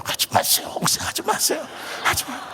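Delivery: urgent hushed mimicked whisper; whispered warning. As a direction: whisper to make the pastor stop. Deacon nudges him to stop. (말리며 속삭이는 흉내)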